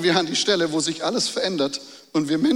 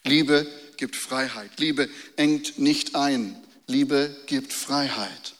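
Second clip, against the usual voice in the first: slow emphatic repeat; slower than usual. Acted. Repeating the key phrase slowly.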